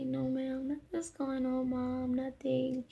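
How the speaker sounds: soft, retold brush-off to mom; imitating a child's soft denial; smiling reassurance. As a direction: play it down quietly with a smile. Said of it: "I would just smile back".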